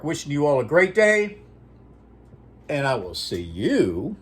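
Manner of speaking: put-on "for Mister and Miz America" in an old radio announcer's sign-off. Correspondent signs off to all his listeners, announcer style. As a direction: sign off like a broadcaster greeting the whole nation.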